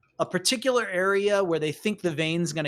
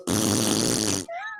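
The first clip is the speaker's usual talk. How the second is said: laugh; 8 semitones lower than usual. Acted. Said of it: "a bunch of laughing from Hatch's crew".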